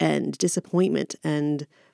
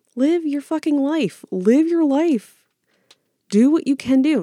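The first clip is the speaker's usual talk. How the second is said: yelling, raised and high; 10 semitones higher, 3 dB louder than usual. Speaking to listeners who keep self-sabotaging, yelling at oneself. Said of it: "I'm kind of yelling at myself".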